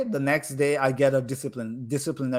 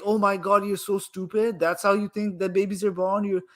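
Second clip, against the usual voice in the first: raised, mocking schoolkid jeer; mocking classmates; 6 semitones higher than usual. Classmates mocking the boy who explained babies, in a jeering tone. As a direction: jeer at him like a smug classmate. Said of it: "They were like".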